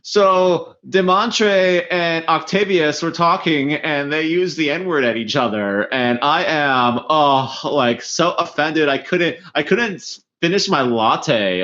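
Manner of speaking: lightly voiced prissy complainer; a touch of a whiny co-worker; offended office worker voice. Continuing the offended co-worker act.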